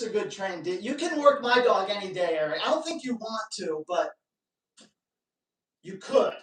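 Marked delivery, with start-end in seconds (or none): 5.8-6.3 teasing squeak. Real, not acted. Teasing Eric.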